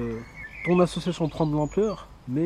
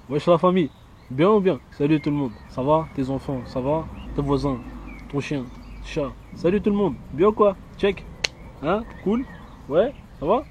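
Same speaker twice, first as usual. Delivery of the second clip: street greeting voice. Pretend. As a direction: greet them like buddies. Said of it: "On fait un essai?". (salut de rue décontracté)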